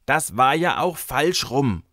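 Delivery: put-on high, loud, slow stroppy child; sulky call. A narrator's reading. Girl defends herself in the quarrel, sulky. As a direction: dig your heels in like a stubborn girl. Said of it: "rief Mareike bockig".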